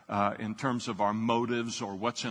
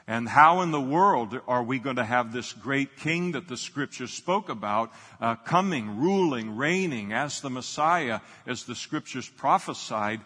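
louder and louder, pushing the question hard; preaching climax; 4 dB louder than usual. Real, not acted. Pastor asking the church how the king could come, building loudly. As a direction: build it like a rousing sermon peak.

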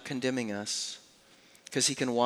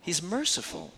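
tender emphasis; 5 semitones higher, 4 dB quieter than usual. Shown as a demonstration. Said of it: "I love it".

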